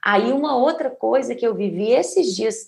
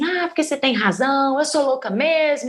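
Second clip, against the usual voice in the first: mock yelling; 5 semitones higher than usual. Woman suddenly bawling at partner mid-argument, mock yell. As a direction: whine it out high, mock hollering. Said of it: "Comecei a berrar assim".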